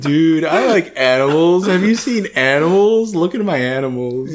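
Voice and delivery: lightly voiced goofy character, pitch swooping; Hagrid. Friend riffs on Hagrid's love of animals, goofy character voice. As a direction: play a big friendly oaf, rising then dropping. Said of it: "He has a fun voice".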